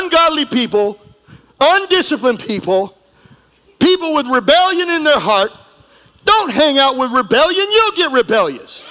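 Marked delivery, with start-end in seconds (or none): 6.2-8.8 higher, shouted warning; preaching shout. Acted. Preacher warning at full force.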